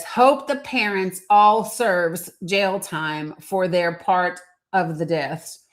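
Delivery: slow, deliberate reading that lingers on "serves"; read out verbatim. Shown as a demonstration. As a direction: drag out each word to expose the grammar slip. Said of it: "That's not me with the singular plural issue".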